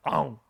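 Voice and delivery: sudden loud "om" chomp noise; imitated gobbling noise. Host retelling catching thrown chocolate, with a loud chomp noise. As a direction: act out snapping up thrown food. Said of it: "like a douche, I just went".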